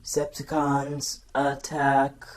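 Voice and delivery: slow robotic order; commanding robot voice; Soundwave command. Retold or imitated. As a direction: call the attack coldly. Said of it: "And then he had said".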